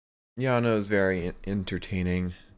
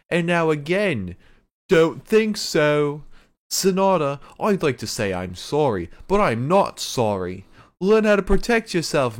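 put-on loud, high-pitched, accented rant of an irate wrestler; fuming Will Ospreay; 8 semitones higher, 7 dB louder than usual. Host retelling wrestler's furious promo, loud high accented impression. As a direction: imitate a furious wrestler's promo, stretching words out loudly. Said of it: "Will Ospreay comes out fuming".

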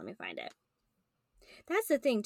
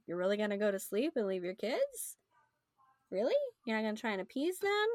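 mildly disbelieving, rising higher toward the end; incredulous questioning; 3 semitones higher than usual. Acted. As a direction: needle the dad with doubting questions. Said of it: "Or it could be questioningly".

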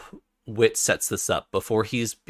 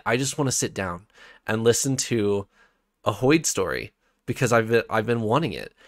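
eager reader; 2 semitones higher, 4 dB louder than usual. Retold or imitated. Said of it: "And as a reader, I'm just like".

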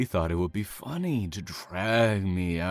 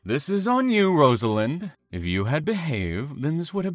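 louder, higher, blaming; angry scolding; 7 semitones higher, 5 dB louder than usual. Acted. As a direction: put the blame on her. Killer scolds captive after escape try.

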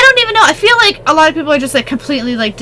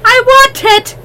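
desperate freezing pleas; 9 semitones higher, 4 dB louder, slower than usual. Pretend.

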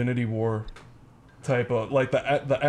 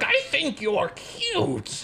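put-on high, slow old lady voice; granny voice; 14 semitones higher, much slower than usual. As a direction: squeak it like a granny. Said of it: "Be like".

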